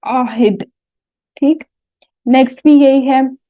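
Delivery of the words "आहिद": आहिद with a little bounce on the final dal; qalqala echo. Shown as a demonstration. Teacher shows the class the qalqala on आहिद. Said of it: "थोड़ा सा हिलाकर पढ़ना है".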